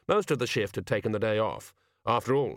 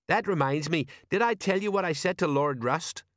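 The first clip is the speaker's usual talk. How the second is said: higher, uneasy sergeant voice; change the subject nervously; 7 semitones higher than usual. A narrator's reading. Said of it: "said Sergeant Colon nervously".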